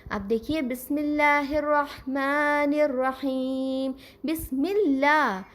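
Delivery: slow, drawn-out Arabic recitation of بسم اللہ; Quranic recitation. Shown as a demonstration. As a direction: stretch the لا in اللہ long and clear. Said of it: "لام کھڑا زبر".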